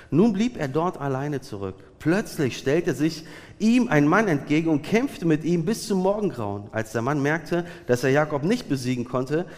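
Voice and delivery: emphatic scripture reading; Bibellesung. A narrator's reading. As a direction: read the Bible story out to a congregation with clear emphasis. Reads Genesis passage aloud. (betont vorgelesene Bibelstelle)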